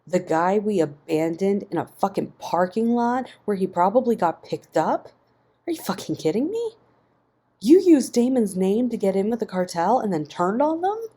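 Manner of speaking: loud, high, outraged shout; incredulous yelling. A narrator's reading. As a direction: explode in disbelief. Ian yelling in disbelief.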